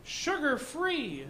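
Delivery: hushed, slow read of the small print; whispered label fine print. Pretend. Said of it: "in fine print".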